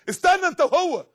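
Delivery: peremptory call to wait; commanding divine order. Acted. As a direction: stop the condemned with a sharp command. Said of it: "ده بيقول للي بيترموا في النار".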